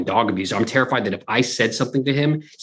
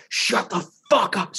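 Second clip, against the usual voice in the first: mock scream; 8 semitones higher, slower than usual. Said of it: "screaming at the top of his lungs".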